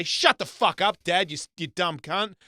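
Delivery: imitating a rude kid shouting at his father; bratty kid yelling. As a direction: yell it like a foul-mouthed kid. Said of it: "And he'd say".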